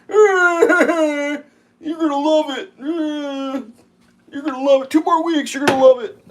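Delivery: high, slow, laughing sing-song; mock promise, laughing. Mocking a sales pitch while cracking up. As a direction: tease with a fake cheerful promise.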